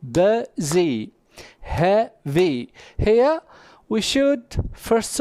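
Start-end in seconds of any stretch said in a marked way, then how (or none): 0.0-1.1 "busy" split in two, bu-sy; syllable by syllable. Shown as a demonstration. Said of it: "consisting of two syllables". 1.6-2.7 "heavy" split in two, hea-vy; syllable by syllable. Shown as a demonstration. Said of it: "consisting of two syllables".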